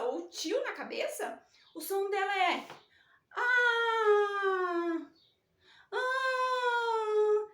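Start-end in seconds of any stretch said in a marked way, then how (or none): 3.4-7.5 high, loud mock crying ah; teacher playing a crying letter A; almost crying. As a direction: wail the ah like a hurt little letter. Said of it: "quase chorando".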